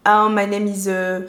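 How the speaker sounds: imitated heavy French accent in English. Showing viewers a French speaker's English, mock French accent. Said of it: "vous avez l'accent français".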